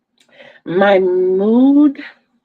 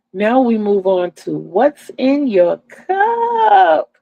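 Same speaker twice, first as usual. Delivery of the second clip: misty-eyed; 4 semitones higher, slower than usual. Real, not acted. Grieving mother moving on with her show, crying. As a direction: voice catching with tears, slowed down. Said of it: "Got a little misty-eyed".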